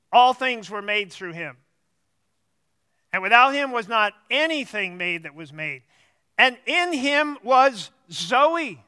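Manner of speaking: measured verse reading, pausing after each phrase; unhurried reading that leaves room to reflect; slow scripture reading. Real, not acted. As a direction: read it out slowly and deliberately. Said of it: "I'm gonna read it rather slowly".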